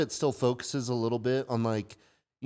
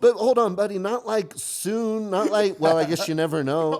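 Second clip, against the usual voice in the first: laughing; 7 semitones higher, 5 dB louder than usual. Retold or imitated. Dad backpedals laughing.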